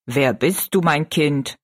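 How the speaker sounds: a lightly voiced stately giant, gracious; dignified giant. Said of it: "fragte der Riese würdevoll". (würdevoller Riese, tiefer)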